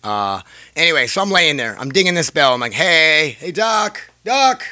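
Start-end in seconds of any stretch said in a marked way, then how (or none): 2.7-4.6 raised, high-pitched call for the doctor; retold yelling. Patient stuck on the table calling the doctor, mock yell. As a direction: imitate calling out down a hallway. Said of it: "You know, I'm yelling".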